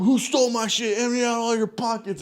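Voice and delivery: high, loud mock rant; reenacted screaming. Storyteller coming out of the room accusing everybody, screaming in imitation. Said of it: "going crazy, screaming".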